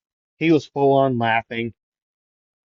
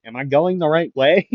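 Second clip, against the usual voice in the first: higher call with a rising end; half-yelled question, pitched up; mock yell; 5 semitones higher, 4 dB louder than usual. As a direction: call it out as a question, lifting the last word. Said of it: "Midoriya would be yelling".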